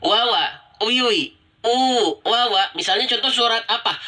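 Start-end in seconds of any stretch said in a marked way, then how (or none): 0.0-2.7 wawa with lazy, unrounded lips; sloppy waw. Shown as a demonstration. Teacher imitating careless readers, sloppy. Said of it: "Misalnya seperti ini".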